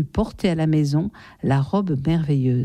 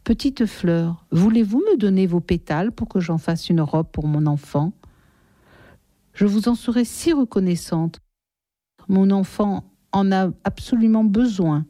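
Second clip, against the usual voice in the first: caressing voice. Acted. The mother gently pleads with the flowers, caressing. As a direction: coax the flowers lovingly. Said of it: "d'une voix caressante".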